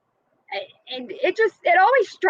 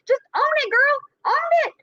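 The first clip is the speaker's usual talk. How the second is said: higher, emphatic urging; 10 semitones higher than usual. Real, not acted. To viewers about the woman, a high emphatic urging. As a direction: egg her on to just own it.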